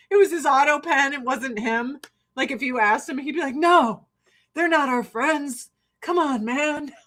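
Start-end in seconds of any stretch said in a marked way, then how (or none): 3.6-6.9 lightly voiced politician, drawn out; a hint of a presidential impersonation; Joe Biden. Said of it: "That's a good Biden impersonation".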